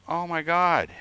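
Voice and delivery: high, loud mock exasperation; retold disbelief at the cashier, high and loud; exasperated oh my God. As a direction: throw it up high like you've had it.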